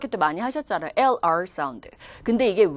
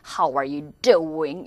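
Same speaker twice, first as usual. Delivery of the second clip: drawn-out, low American "How are you doing?"; American accent; 5 semitones lower, much slower than usual. Shown as a demonstration. Teacher mimicking gesturing Americans for students, American accent. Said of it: "영국 사람들이 이런 게 좀 덜 해요".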